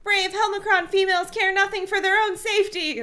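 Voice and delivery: high, pompous command; demanding alien. A narrator's reading. Helmicrons demanding the humans grovel, high pompous voice. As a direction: order them to grovel. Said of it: "the voice shouted".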